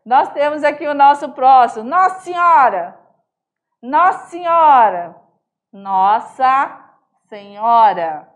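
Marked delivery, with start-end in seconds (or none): 1.9-8.3 Nossa Senhora clipped to "nossinhora"; emphatic mineiro. Shown as a demonstration. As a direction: exclaim Nossa Senhora with the syllables squeezed. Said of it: "pão de ons".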